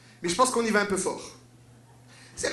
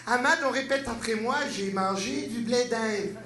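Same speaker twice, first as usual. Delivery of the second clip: slow teacher drill. Acted. Teacher drilling immigrant on French.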